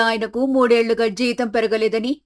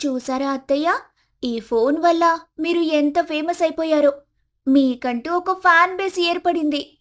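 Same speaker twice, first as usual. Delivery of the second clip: put-on higher, playful young voice; daughter-in-law teasing about fame, higher voice; Komali, teasing cheerfully; 5 semitones higher than usual. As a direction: tease her mother-in-law brightly, pitched up.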